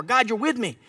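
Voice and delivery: emphatic prayer, lifting high on "with me"; praying out scripture. Shown as a demonstration. Preacher thanking God for being with him, fervent prayer. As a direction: pray with rising conviction, building in pitch. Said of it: "That's a scripture I'm praying out".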